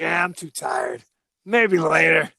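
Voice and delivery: a mock-weary shouted shrug; lazy brush-off. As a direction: wave off the threat, too tired to bother, hammed up. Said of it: "He's like".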